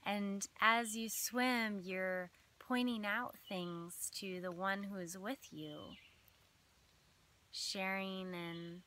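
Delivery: measured meditation voice with long pauses between phrases; unhurried phrases, each left to settle; guided visualization. Acted. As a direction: lead listeners gently through an imagined scene.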